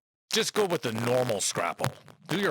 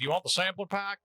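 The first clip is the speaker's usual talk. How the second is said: light mock southern accent, pitched up; 6 semitones higher than usual. Scrapple company on the phone offering samplers, mock southern accent. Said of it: "make like they have a southern accent".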